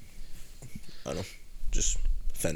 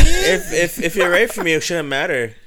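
higher, louder, defensive retort; indignant retort; 6 semitones higher, 7 dB louder than usual. Pretend. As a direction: snap back, offended. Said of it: "acting out the girl's retort".

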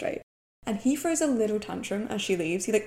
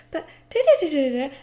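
mock protest; 7 semitones higher, 6 dB louder than usual. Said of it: "she's like".

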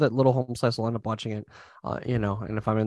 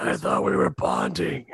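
drawn-out, slower quote; slow character voice; slower than usual. Retold or imitated. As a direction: stretch it out in a put-on voice.

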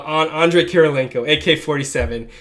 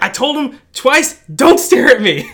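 louder, laughing through the ref's words; mock ref reply; 8 semitones higher, 4 dB louder than usual. Retelling the ref to the coach, mock stern through laughter. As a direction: imitate the stern ref while cracking up. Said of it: "He's like".

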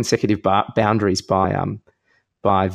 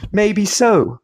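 smug comeback; 5 semitones higher than usual. Retold or imitated. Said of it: "I like the delivery on that one".

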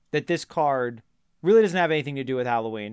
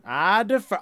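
hammed-up Southern lawyer, higher; bad Southern accent; 4 semitones higher than usual. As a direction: slip back into the fake Southern accent. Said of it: "please stop doing a bad Southern accent".

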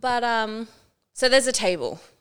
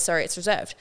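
customer service voice. Retold or imitated. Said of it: "It's in my customer service voice".

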